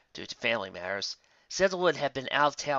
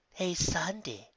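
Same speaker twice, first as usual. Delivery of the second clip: calling out; 6 semitones higher, much slower than usual. Acted. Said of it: "called out Lotus".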